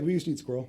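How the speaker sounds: "We used to eat squirrel" as a plain matter-of-fact fact; flat statement. Retold or imitated. Coworker stating a fact, calm matter-of-fact statement. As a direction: state "squirrel" flatly, falling. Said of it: "The fact is".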